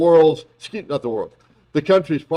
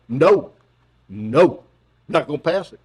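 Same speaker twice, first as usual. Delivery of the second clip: Mitch McConnell impression. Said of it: "impersonation of Mitch McConnell".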